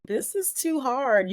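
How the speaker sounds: a retold prayer of despair, slow and high; anguished plea to God. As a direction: plead that it is too much. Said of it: "I started talking to God".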